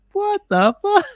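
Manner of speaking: high, disbelieving what the fuck; a viewer retelling his reaction to a plot twist, shocked; shocked outburst. Retold or imitated. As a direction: react to the betrayal in total shock.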